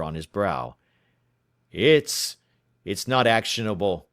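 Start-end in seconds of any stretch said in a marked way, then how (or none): 1.7-4.1 cornered man stammering a defence; stammered. Acted. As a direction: get the first word stuck, then push through. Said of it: "he stammered".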